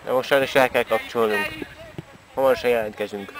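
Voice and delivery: sports commentary. Acted. Mock live match commentary.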